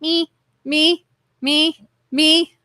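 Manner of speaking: high little mock voices chiming in; chat crowd characters. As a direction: imitate eager volunteers one after another. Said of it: "all these people in the chat going".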